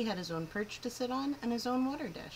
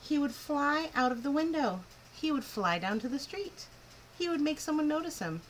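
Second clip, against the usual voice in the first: excited; 7 semitones higher than usual. A narrator's reading. Narrator voicing Ralph's wonderful idea, eager and bright. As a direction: build the thrill of a daring plan.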